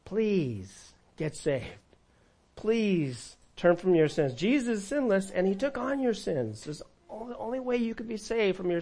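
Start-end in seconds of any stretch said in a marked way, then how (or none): 0.0-6.6 pleading. Acted. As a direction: beg them gently and slowly. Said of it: "plead with them".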